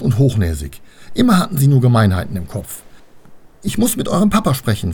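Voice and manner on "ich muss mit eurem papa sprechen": high voice, barely composed; half controlled. A narrator's reading. Annabel asks the daughters for their father, half composed. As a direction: hold back the anger, pitched high. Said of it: "versuchte sie halbwegs beherrscht zu sagen".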